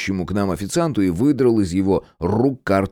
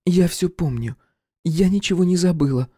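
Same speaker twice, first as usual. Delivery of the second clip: voiced woman Irka; 10 semitones higher than usual. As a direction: lay on the longing. Irka to Max.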